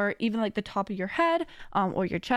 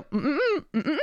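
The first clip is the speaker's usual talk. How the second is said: hummed no-no; 4 semitones higher than usual. Shown as a demonstration. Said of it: "I go".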